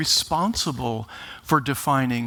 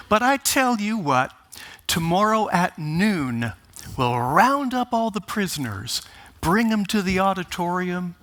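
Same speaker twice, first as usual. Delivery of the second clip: higher, brighter-pitched jailer offer; jailer perking up; 5 semitones higher than usual. Retold or imitated. Jailer cheerfully tells the coach he may lecture, mock upbeat. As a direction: lift the pitch as the jailer warms to the idea.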